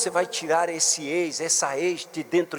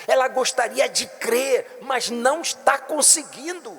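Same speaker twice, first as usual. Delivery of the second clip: preaching that climbs steadily higher; building sermon; 11 semitones higher than usual. Acted. Bishop lays out the believer's struggle, building preaching. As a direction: build the appeal, pushing pitch up.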